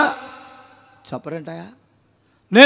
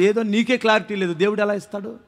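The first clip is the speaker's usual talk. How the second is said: soft, low-key aside of reproach; muted scolding; quiet rebuke; 3 semitones lower, 8 dB quieter than usual. Real, not acted. First, quiet take of rebuke.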